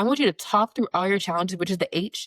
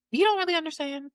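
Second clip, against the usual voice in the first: much higher, pleading protest; exasperated reply; 10 semitones higher than usual. Retold or imitated. Grieving daughter answering condolers, exasperated. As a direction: insist they just don't get it.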